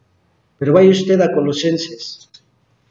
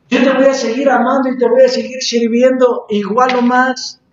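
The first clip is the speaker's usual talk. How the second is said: higher-pitched, earnest retold pleading; retold tearful plea; 5 semitones higher than usual. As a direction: plead with God as you retell it. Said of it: "Y le lloraba". (súplica relatada, en tono más agudo)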